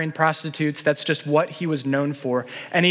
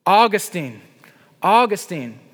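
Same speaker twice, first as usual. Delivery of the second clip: louder calling of a name; woman calling after him by name; 3 semitones higher, 4 dB louder than usual. Retold or imitated. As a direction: call his name across the street. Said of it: "began to call out to him".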